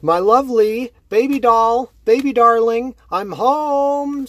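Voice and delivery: high, loud, eerie sing-song; creepy sing-song. Acted. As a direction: croon it like a mad killer at the door. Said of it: "She's saying".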